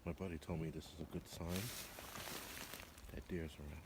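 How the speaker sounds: hushed whisper so nothing spooks. Real, not acted. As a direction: keep it to a low breathy whisper. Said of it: "sorry for whispering".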